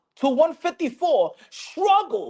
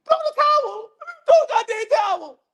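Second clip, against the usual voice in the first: higher frantic shout, a bit quicker; mock yell; 9 semitones higher, faster than usual. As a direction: shout it again at the trainer. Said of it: "Bernie the boxer telling Bo Mac".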